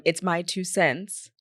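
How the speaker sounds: slow, deliberate quote; slow hashtag read. Retold or imitated. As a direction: read it slowly, word by word. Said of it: "he would hashtag all of them".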